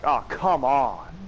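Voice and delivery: slow, fed-up groan; exasperated. Retold or imitated. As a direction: drag out the complaint. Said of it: "you're like".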